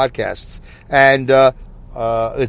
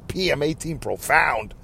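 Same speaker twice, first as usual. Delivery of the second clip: laughing at himself; 8 dB quieter than usual. Real, not acted. Laughs at own odd phrase.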